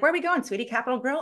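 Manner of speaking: a hint of an eager husband asking. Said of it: "my husband's like".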